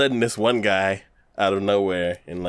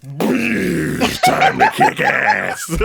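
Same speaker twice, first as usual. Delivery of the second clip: laughing mock boast; 10 semitones higher, 5 dB louder, much slower than usual. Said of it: "And they're like".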